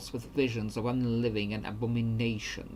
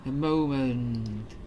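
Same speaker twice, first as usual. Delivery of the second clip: ghost voice; 4 dB louder, much slower than usual. Acted. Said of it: "This is my ghost voice".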